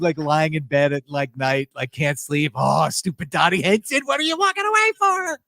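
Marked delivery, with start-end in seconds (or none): 2.5-5.4 whiny voice jumping much higher at the end; mock frustrated Craig. Co-host imitating Craig sleepless over Dottie, mock whine. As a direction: imitate him grumbling in bed, can't sleep. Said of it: "I can see Craig".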